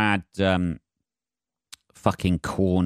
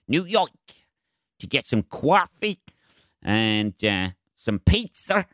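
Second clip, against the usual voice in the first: put-on New York accent; 3 semitones higher than usual. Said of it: "the New York accent slipped there".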